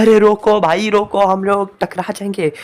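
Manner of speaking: high, loud cry to stop the car; panicked shout. Acted. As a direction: yell in alarm as she speeds. Speeding car, Mitso panics. (घबराकर ऊँची आवाज़ में चिल्लाना)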